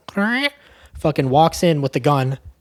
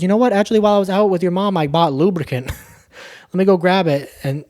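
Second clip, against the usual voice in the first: eager; 4 semitones higher than usual. Retold or imitated. Vera faking eagerness to boyfriend.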